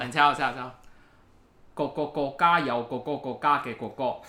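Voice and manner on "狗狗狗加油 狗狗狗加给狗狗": mock Cantonese. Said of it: "粤语来念的话".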